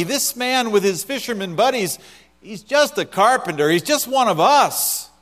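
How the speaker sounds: mocking, dismissive crowd voice; scoffing crowd. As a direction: scoff at the idea of a carpenter king. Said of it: "response implied".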